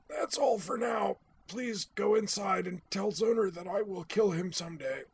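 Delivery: struggling for breath; winded. Acted. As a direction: talk with the wind knocked out. Winded sensei dismissing student.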